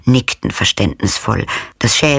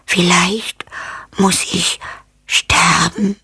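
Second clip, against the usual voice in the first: high, hushed and sorrowful; quiet and sad; 7 semitones higher, slower than usual. A narrator's reading. Lamb telling the girl it may die, quiet and sad. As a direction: whisper it, near tears. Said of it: "sagte leise".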